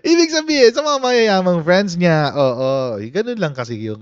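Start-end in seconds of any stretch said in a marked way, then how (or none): 0.1-3.0 laughing. Real, not acted.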